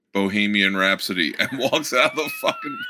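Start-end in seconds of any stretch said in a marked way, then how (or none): 0.1-1.3 very deadpan, flat, expressionless, much lower pitch. Retelling what a bandmate said before walking out of the band, very deadpan. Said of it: "he very deadpan just goes".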